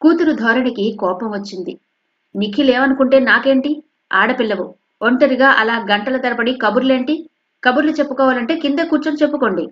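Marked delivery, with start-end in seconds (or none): 2.4-9.7 stern mother, higher and louder; harsh. Acted. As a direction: scold sharply, speeding up at end. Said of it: "కటువుగా అంది".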